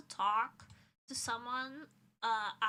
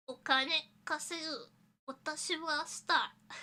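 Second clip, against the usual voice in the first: mock boastful star; 4 semitones higher, 4 dB louder than usual. Jokey Japanese boast.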